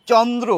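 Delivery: চন্দ্র with the final vowel said as o, chondro; Bengali pronunciation. Shown as a demonstration. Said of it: "আমরা বাংলায় বলি চন্দ্র". (চন্দ্র শেষে ও উচ্চারণ করে)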